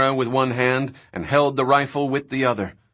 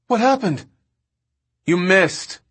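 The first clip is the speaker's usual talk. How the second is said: urgent calling; 6 semitones higher than usual. A narrator's reading. Shouted exchange during motorbike chase.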